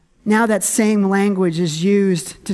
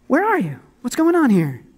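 mock blaming; 3 semitones higher than usual. People demand answers from an absent God, mock blaming. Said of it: "how quick are we to blame God".

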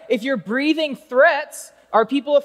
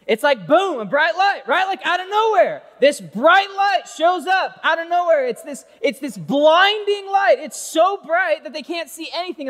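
higher, louder, building excitement; excited; 6 semitones higher, 4 dB louder than usual. Real, not acted. Preacher whipping up the youth crowd about the light, excited. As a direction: paint the blinding light with big energy. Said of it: "more excited about the story".

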